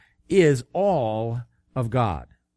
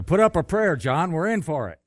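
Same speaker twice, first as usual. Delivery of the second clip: higher, urgent storytelling shout; mock shout; 6 semitones higher, 3 dB louder than usual. Frightened man shouts to his companion as a bull chases, mock shout. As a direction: call out urgently, only half shouting. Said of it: "one shouted out to the other".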